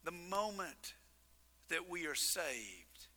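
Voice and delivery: hushed preaching. Acted. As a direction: draw them in quietly. Soft reflective preaching.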